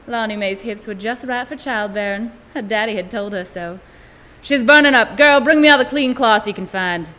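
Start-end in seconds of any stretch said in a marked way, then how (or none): 4.4-7.1 loud, urgent worried orders. Acted. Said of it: "The granny woman sounded worried".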